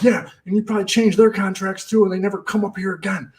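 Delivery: retold angry yell. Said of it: "I was screaming at him".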